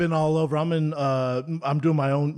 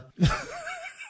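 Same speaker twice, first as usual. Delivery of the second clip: spitting out a drink; 4 dB quieter than usual. Real, not acted. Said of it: "I just sprayed water on my brand new computer".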